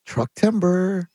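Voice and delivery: lightly voiced Mario, slowed on the last words; a loose take on Mario's smooth delivery. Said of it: "you do it as Mario".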